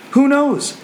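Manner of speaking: high, ringing pulpit cry; excited proclamation. Acted. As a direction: throw it out high and eager. Proclaims the verse's hope again.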